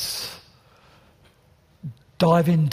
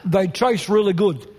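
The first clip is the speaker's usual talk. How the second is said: mouth full; 3 semitones higher than usual. Real, not acted. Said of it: "Shouldn't preach with your mouth full".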